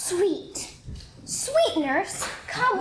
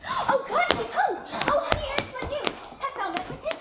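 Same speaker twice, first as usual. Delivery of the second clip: eager excitement; 6 semitones higher, 4 dB quieter than usual. Acted. Juliet sees nurse arrive.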